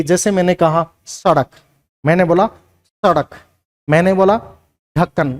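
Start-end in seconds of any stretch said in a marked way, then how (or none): 1.1-1.5 सड़क with a weighted, heavy flapped ड़. Shown as a demonstration. Teacher showing the nukta sound, heavy ड़ in सड़क. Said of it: "वो भारेपन से निकलेगी". 2.5-3.3 सड़क said with weight on the flapped ड़; heavy flapped ड़. Shown as a demonstration. Teacher repeating the nukta example, weighted ड़ in सड़क. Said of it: "वजन देते हुए निकलेगी".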